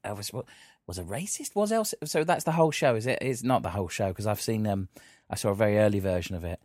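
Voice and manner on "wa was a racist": softer, with "racist" rising at the end; statement as question. Shown as a demonstration. Host trying the show title again, questioning lift on "racist". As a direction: make "racist" a quiet upturned question. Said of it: "a statement with a question mark at the end".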